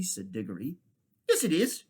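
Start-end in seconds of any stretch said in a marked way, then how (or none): 1.3-1.8 put-on childish retort. Children bicker.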